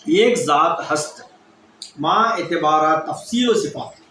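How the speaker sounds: each word of the definition laid out slowly and deliberately; slow recitation. Shown as a demonstration. Teacher giving students the definition of واحدیت, slow and deliberate. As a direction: recite it slowly, as a formula to learn by heart. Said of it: "واحدیت کی تعریف کیا ہے؟".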